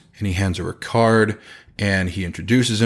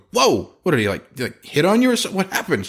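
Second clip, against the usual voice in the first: surprised; 9 semitones higher, faster than usual. Retold or imitated. Husband reacting to angry wife.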